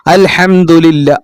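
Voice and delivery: slowly recited Quranic phrase; slow recitation. Shown as a demonstration. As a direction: draw out അൽഹംദുലില്ലാ slowly. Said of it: "ഫാത്തിഹയിലെ ആദ്യത്തെ അക്ഷരം എന്താ?".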